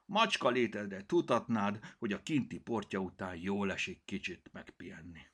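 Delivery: grumbling. Acted. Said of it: "morgott Cirmi".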